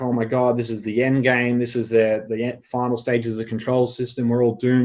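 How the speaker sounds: ordinary talk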